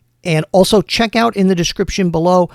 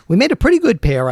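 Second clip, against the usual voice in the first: Spider voiced; 7 semitones higher, 4 dB louder, faster than usual. Spider voiced in played story.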